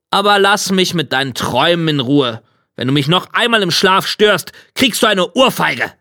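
understated grumpy threat; irritated devil. Acted. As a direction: threaten with a touch of annoyance.

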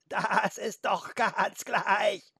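high, very slow bleat with stretched vowels; bleating goat. A narrator's reading. Goat brushes off Felix's objection, bleating. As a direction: bleat it out, dragging each vowel. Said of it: "meckerte die Ziege".

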